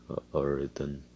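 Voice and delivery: low, soft and bleak. Retold or imitated. Son grudgingly replying before leaving, bleak. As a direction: answer bleakly, with little voice behind it. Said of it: "he's so bleak, you could say, with his words".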